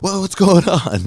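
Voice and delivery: high-pitched imitation of a panicking mother; freaked-out mom. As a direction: imitate mom fretting down the phone. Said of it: "my mom is freaked out".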